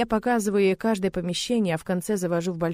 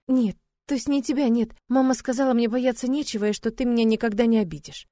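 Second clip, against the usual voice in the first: put-on lightly higher voice of a nervous young bride; shy young bride; 4 semitones higher than usual. Young bride to new husband, nervous and lightly higher. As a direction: play a timid girl reassuring herself. Girl's voice for Yara.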